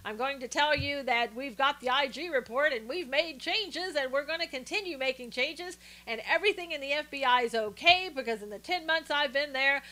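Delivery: hammed-up bland official voice; mock FBI director. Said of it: "just sits there like".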